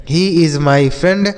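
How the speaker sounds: drawn out word by word; slow dictation voice; very slow model sentence. Shown as a demonstration. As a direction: read it slowly for the class. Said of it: "teacher's slow model sentence".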